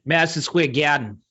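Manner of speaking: Madison Square Garden in New Yorkese, r's dropped; New York accent with dropped r's. Shown as a demonstration. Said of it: "in a New York accent".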